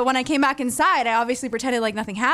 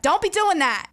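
put-on Maine accent; 7 semitones higher than usual. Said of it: "it's like an accent".

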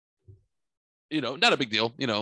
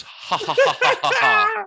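high, loud mocking cackle; father-in-law's smug high laugh; 8 dB louder than usual. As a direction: laugh it off smugly at the sailor. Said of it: "the kind of the smugness he kinda said it".

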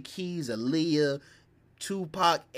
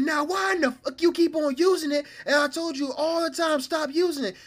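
high, loud mock scolding; furious mom; 11 semitones higher, 4 dB louder than usual. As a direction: scold the son at full tilt. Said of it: "She said".

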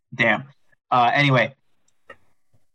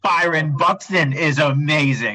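gushing praise; 3 semitones higher, slower than usual. Real, not acted. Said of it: "I didn't hit mute fast enough".

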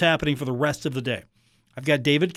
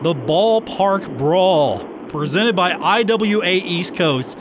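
straight face; 2 semitones higher, slower than usual. Real, not acted. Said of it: "I'm trying to say this with a straight face".

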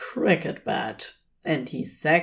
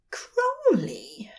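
fervent whispered name; breathed fervently; 10 semitones higher than usual. A narrator's reading. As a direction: breathe his name close and full of feeling. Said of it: "he breathed fervently".

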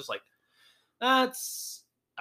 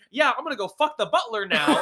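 smug rich guy; 8 semitones higher, 4 dB louder than usual. Retold or imitated. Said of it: "And he's like".

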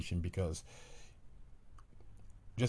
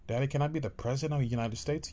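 put-on higher, quick hopeful kid; child voice; 4 semitones higher, faster than usual. Child asking daddy, in a higher kid voice. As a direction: ask like an eager little kid.

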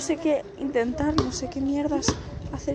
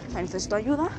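low, despairing; 6 semitones lower, 4 dB quieter, faster than usual. Real, not acted. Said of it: "y así lo digo".

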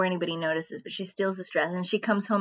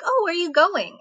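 much higher, friendly imitated sister; nice chatty question; 11 semitones higher, 4 dB louder than usual. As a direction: ask it lightly, in a raised voice. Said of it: "They're having a nice conversation".

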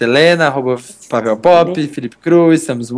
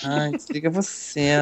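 very soft lovesick murmur; giggly late night call; 11 dB quieter than usual. Pretend. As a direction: barely breathe it to a lover. Mock lovers' goodbye on call.

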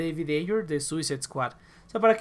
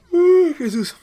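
high, loud laughing cry; laughing exclamation; 12 semitones higher, 11 dB louder, much slower than usual. Real, not acted. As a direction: burst out laughing at the meme. Se ríe del meme. (exclamación riendo a carcajadas)

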